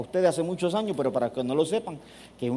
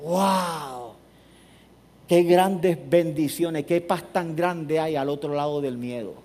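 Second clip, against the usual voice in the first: awed, peaceful wonder; much slower than usual. Retold or imitated. Awed reflection after the jump.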